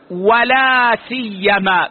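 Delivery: "ولا سيما" spelled out slowly, each word separate; "ولا سيما" enunciated slowly for students; careful citation form. Shown as a demonstration. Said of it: "يجوز أن يقال".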